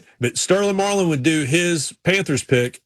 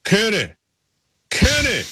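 high, drawn-out call of the name; a friend hollering from behind; calling out from afar; 6 semitones higher, slower than usual. Retold or imitated. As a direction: call across the track to get his attention. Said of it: "all of a sudden I hear".

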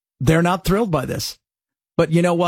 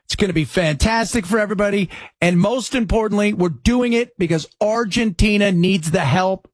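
a hint of Trump, breezy and boastful; lightly voiced president, waving it off; mock Trump voice; 3 semitones higher than usual. Host mimicking Trump to listeners, breezy boastful mock. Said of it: "So Trump's like".

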